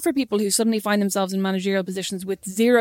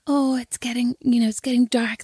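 whispered lullaby. Retold or imitated. Mother whispering bedtime words down the phone, hushed. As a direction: whisper her off to sleep. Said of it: "lull her to sleep by going".

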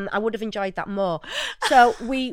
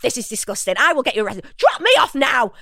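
stern professional; 4 dB louder than usual. Retold or imitated. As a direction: lay down the law, deliberate and firm. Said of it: "I was trying to be really professional".

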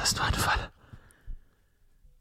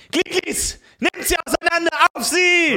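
battle shout; 4 semitones higher than usual. Acted. Commands attack.

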